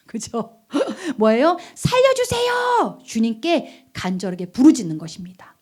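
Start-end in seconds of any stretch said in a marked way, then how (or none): 1.7-3.0 high, drawn-out shout for rescue; desperate cry for help. Acted. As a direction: cry out as if drowning. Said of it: "소리를 잘 질렀어요". (살려달라는 간절한 외침)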